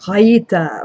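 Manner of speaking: "Raita" with R faked as throat noise; faked French R. Shown as a demonstration. Streamer showing how she fakes French R's, throaty fake R on "Raita". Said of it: "I kind of have to fake it".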